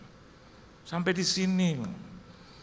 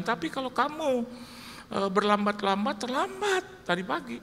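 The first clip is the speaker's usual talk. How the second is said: higher, bossy wife nagging him to get up; wife scolding her late husband, bossy and higher; stern wife; 5 semitones higher than usual. Retold or imitated. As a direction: play the strict wife rushing her husband out of bed. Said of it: "Ini bisa liatin saya".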